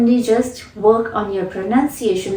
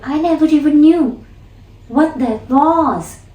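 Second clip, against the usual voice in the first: "what that was" slowed and falling, "knew" lifted higher; stress on what that was; 4 semitones higher than usual. Shown as a demonstration. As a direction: lean on "what that was" and drop the tune. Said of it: "the tone of the speech gets softer at this point".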